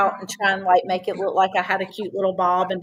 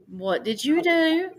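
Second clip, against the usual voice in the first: slow, gentle question from a grandfather, a little higher; calm voice; 8 semitones higher, slower than usual. Retold or imitated. Grandfather calmly asking his granddaughter what she did, slow and gentle. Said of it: "he has this calm voice".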